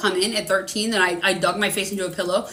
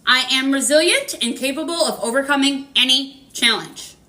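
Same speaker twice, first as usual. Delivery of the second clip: affirmation recital; 3 semitones higher than usual. Shown as a demonstration. Reader leading the live chat in repeating an affirmation, measured mantra. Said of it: "We're gonna do it one more time".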